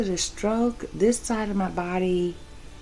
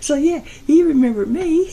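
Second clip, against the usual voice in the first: amused and laughing as she tells it; 7 semitones higher than usual. Real, not acted. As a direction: chuckle through the words. Laughing while telling the story.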